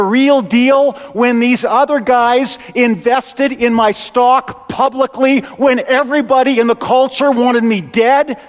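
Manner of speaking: lightly voiced rebuke from the returning king; stern king. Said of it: "And Jesus is going".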